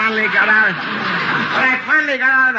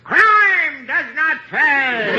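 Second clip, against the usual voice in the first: solemn moral; 7 semitones higher, much slower than usual. Acted. Moral of the story.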